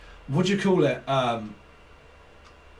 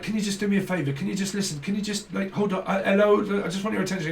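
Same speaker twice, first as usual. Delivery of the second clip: higher-pitched nagging for attention; mock pestering; 5 semitones higher, faster than usual. Clingy partner begging a busy one to listen, mock pestering. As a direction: plead insistently, imitating a needy partner.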